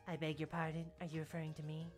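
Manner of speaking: low, stiff and formal; a touch of a haughty girl; prim low voice. Acted.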